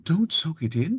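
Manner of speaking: Don't leaps up high and loud with a rise; loud high warning. Acted. Irradiated Chaos persona yelling a warning, high and loud. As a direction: shout it as a sudden alarm. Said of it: "And Irradiated Chaos".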